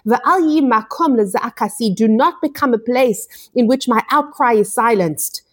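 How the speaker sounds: retold bitter cry, pitched high without shouting; bitter outcry. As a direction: cry out in mild, imitated bitterness. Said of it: "hear the bitterness as he screams out".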